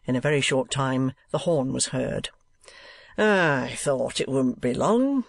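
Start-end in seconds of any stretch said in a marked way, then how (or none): 3.2-5.2 a hint of drawling schoolmaster, slow; lightly voiced schoolmaster, words drawn out; schoolmaster Squeers. Schoolmaster as the coach horn is heard, slightly drawling.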